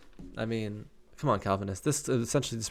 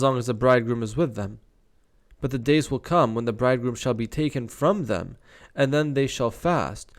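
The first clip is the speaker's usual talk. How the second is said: firm, measured Bible read-aloud; scripture reading. Acted. Reader giving Jesus's answer on fasting, scripture reading. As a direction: declaim the verses phrase by phrase.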